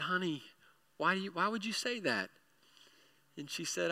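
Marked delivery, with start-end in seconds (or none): 0.0-2.3 soft, tender question; gentle concern. Retold or imitated. Dad to crying three-year-old, gently concerned. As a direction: ask an upset child softly.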